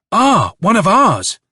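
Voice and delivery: a loud, slow cry of recognition; shouted. A narrator's reading. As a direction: call out, glad to see a friend. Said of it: "shouted Nikolka".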